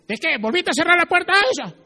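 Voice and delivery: high, loud put-on husband voice; dismissive husband. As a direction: brush her off loudly.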